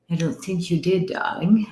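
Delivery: put-on soft breathy English accent on darling; whispered English accent. Psychic teasing a silent viewer in English accent. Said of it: "reading too much news from England".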